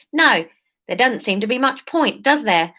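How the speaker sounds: lightly attempted South London voice; South London accent. Leader answering the topsider, light South London accent. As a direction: retake it in a hint of South London. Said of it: "Surf, surf London, that's it".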